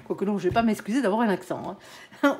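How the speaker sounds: usual speaking voice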